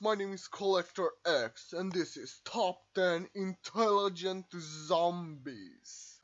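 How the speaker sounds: spooky slowed host voice; hammy Halloween host intro; jack o lantern voice. Acted. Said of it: "I'm not going to use that voice".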